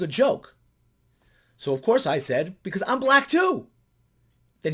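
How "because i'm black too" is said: higher, louder, rising up on too; playful high exclaim. Retold or imitated. Answering the student's claim with a playful high exclaim. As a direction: toss it back as a punchline.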